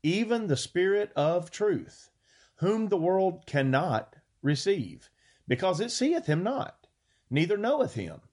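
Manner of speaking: scripture reading. Acted. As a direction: read the King James words with weight. Preacher reads scripture aloud.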